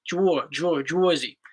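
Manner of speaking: Jersey broken down as "Jwor, Jwor, Jworzy"; local "Jersey". Shown as a demonstration. Husband showing how locals talk, Jersey as "Jworzy". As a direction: round the first vowel of Jersey to "Jwor". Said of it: "we say Jersey".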